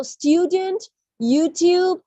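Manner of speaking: slow "student, YouTube" with an ee-oo glide. Shown as a demonstration. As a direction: model "student, YouTube" slowly. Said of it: "always sounds like a E U".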